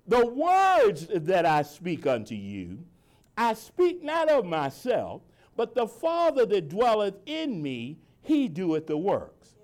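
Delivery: slow, deliberate scripture reading; slow reading so each word lands. Shown as a demonstration. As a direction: lean on every word, slowly. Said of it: "I'm gonna read it slow this time".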